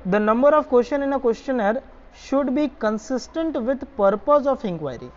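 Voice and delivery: reads the point out word by word, very slow; slow dictation so students can copy it down. Acted. Teacher to students copying notes, slow dictation.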